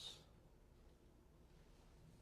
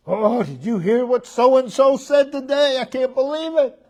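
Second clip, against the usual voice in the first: 1 mock gossip voice; 9 semitones higher, 4 dB louder than usual. Imitating gossiping person.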